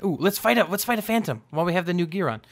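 high, quick burst of eagerness; excited. Real, not acted. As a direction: jump on it, eager to fight. Spots a phantom to fight.

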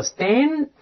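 "stan" with open æ closing on a clear n; front nasal ending. Shown as a demonstration. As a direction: model stan, æ then tongue up for n. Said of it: "然后再发前鼻音". (stan，梅花音æ后接前鼻音n)

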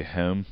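"home" with the local long o; accented "home". Shown as a demonstration. Co-host gives an accent example, regional vowel in "home". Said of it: "My accent".

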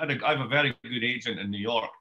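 ordinary delivery

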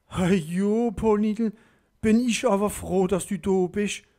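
hoch und laut vor Freude; begrüß die Freundin glücklich; freudig erleichtert. A narrator's reading. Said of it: "gegriffen vor Freude". (Madame begrüßt Pauline hoch und freudig)

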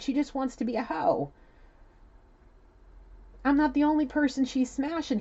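high, loud, aggrieved venting; loud, worked-up griping; heated complaint. Retold or imitated. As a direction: vent about her at high pitch and full volume. Channels man's complaint about woman.

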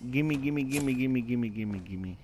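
rapid chanted gimmes, tailing downward; playful greed. Pretend. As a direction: grab at it like a greedy kid. Greedily grabbing loot in game.

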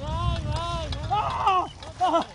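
high yelps in cold water; in ice cold water. Real, not acted. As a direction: yelp from the freezing water. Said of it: "qué fría".

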